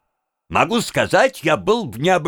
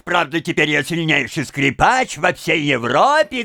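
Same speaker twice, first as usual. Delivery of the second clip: plain reading voice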